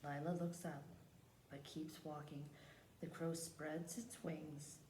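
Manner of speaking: measured picture-book reading; read-aloud narration. Acted. Teacher reads a picture book to the class, measured storytelling. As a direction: read the story out unhurriedly, phrase by phrase.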